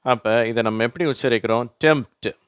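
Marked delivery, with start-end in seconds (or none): 1.8-2.4 "டெம்ப்ட்" said as "temt"; higher model "டெம்ப்ட்", m straight into t; silent p. Shown as a demonstration. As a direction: drop the p in "டெம்ப்ட்". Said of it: "அந்த பீன்ற உச்சரிப்பு வரதில்லை".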